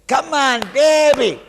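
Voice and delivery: loud high coaxing call; coaxing father. Retold or imitated. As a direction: call the child to jump. Father coaxing child to jump.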